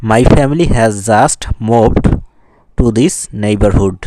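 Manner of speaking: slow model reading, leaning on "just"; stress on JUST. Shown as a demonstration. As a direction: read it word by word with weight on "just". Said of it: "justটা হচ্ছে stress ওয়ার্ডস". ("just"-এ জোর দিয়ে ধীরে পড়া)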